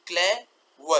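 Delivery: क्लेवर broken into cle and ver; two sounds. Shown as a demonstration. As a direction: say the two syllables of क्लेवर apart. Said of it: "तो ये दो sound हो गए". (क्लेवर के दो हिस्से अलग-अलग, क्ले, वर)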